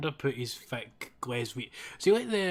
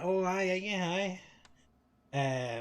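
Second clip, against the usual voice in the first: higher-pitched, drawn-out show of agreement; humouring granda; 6 semitones higher, slower than usual. Retold or imitated. Granda humouring an American claiming to be Scottish, mock agreement. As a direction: play along with a lilting voice.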